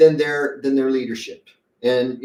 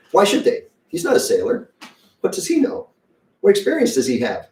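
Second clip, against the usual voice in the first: much higher, scoffing mock voice, near whisper; mocking sailors; 8 semitones higher than usual. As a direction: scoff at the preacher in a high mock voice.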